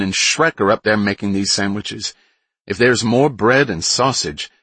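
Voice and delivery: put-on high, loud excited Boston accent; thick Boston accent, thrilled by food. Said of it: "she said in a thick Boston accent".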